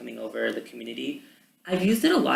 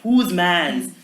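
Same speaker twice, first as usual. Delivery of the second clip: stereotypical slang; 6 semitones higher, 9 dB louder than usual. Retold or imitated. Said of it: "you have this stereotypical".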